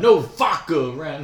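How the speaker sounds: high, loud redneck decree; hammed-up redneck, no D in vodka; mock redneck accent. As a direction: lay down the law in a redneck accent. Continues the joke redneck patriot.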